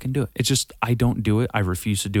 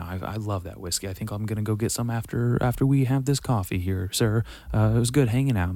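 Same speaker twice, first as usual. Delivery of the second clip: personal, organic. Retold or imitated. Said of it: "I would just be like".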